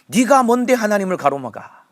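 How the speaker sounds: high, loud stern rebuke of oneself; rebuking oneself. Shown as a demonstration. Pastor repeats the self-rebuke for the congregation, loud and stern. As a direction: bark it at your own stubborn heart. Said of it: "나를 꾸짖는 마음으로".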